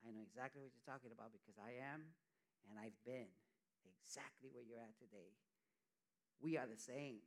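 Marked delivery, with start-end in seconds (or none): 0.1-5.4 welcoming group member. Retold or imitated. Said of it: "They're like".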